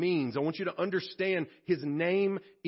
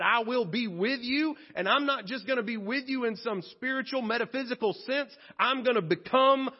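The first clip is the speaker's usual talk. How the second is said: God's promise; 4 semitones higher than usual. Acted. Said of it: "God said".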